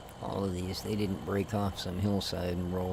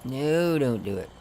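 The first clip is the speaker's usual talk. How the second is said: louder, higher urgent plea; loud pleading; 6 semitones higher, 10 dB louder, slower than usual. Real, not acted. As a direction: shout it out, begging the rock. Rock about to fall, pleading.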